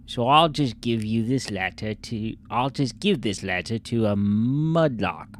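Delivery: lightly put-on English accent. Player reading a found letter aloud, English accent. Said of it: "read this in an English accent".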